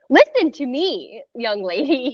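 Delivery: slow, mock stern telling-off; stern scolding. Doula scolding panicking mother, hint of stern parent. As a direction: play the strict parent, lightly. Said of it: "you got so in my face".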